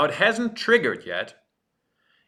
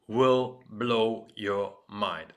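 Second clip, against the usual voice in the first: dramatic tease; 2 semitones lower, much slower than usual. Acted. Teasing big reveal.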